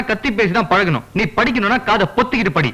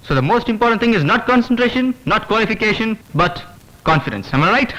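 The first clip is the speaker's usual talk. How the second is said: slow, drawn-out orator delivery practising a speech; slow pompous public address; grand rehearsed speech; much slower than usual. Acted. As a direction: declaim each phrase like a stage politician. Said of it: "நான் என் வீட்ல நடிக்கிறேன், கத்தி பேசுவேன்".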